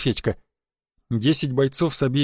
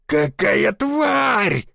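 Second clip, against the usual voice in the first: drawn-out high furious yell; furious shout; 7 semitones higher, much slower than usual. A narrator's reading. Sikach yelling at the scratched car, furious shout. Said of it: "заорал Сикач".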